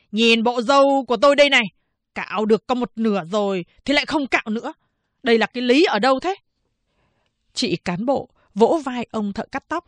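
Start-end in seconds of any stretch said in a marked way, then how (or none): 0.1-6.3 a touch of indignation. Acted. Prisoner complains.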